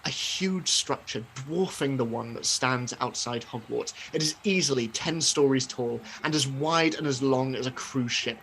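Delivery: measured, atmospheric narration; hushed trailing ends on a storyteller's description; game master scene setting. Acted.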